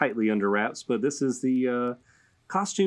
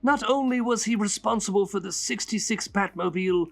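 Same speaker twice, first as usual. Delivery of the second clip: Joker voice; 6 semitones higher than usual. Pretend. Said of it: "I'm gonna say it in Joker's voice".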